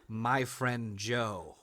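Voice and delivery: slow, drawn-out inscription reading; a drawn-out, solemn mock inscription. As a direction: read it out slowly like an ancient carving. Mock ancient inscription read.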